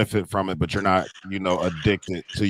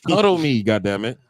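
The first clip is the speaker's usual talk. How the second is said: much higher, whiny mock plea, half laughing; mock needy husband; 14 semitones higher, 3 dB louder, slower than usual. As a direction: play a clingy husband begging for cuddles. Jokingly plays clingy husband.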